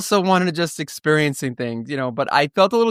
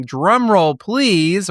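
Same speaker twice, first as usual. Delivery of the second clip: louder, ringing announcement of a drum roll; 3 semitones higher, 4 dB louder, much slower than usual. Shown as a demonstration. Host hyping the big reveal to listeners, announcer style. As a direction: call for the drum roll like a showman. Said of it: "or perhaps I should say".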